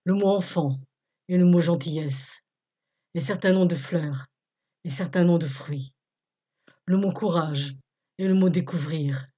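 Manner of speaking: solemn, measured poem reading with falling line ends; poem recitation. Acted. Presenter reciting a tribute to a dead resistant, measured recitation. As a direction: recite each short line firmly, pausing between.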